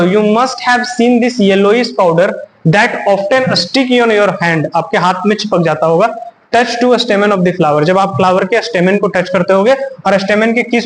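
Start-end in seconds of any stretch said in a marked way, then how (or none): 0.0-4.7 slow read-aloud. Shown as a demonstration. Teacher reading the textbook line slowly to students. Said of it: "तो पढ़ो". 6.5-7.8 slow read-aloud. Shown as a demonstration. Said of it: "तो पढ़ो".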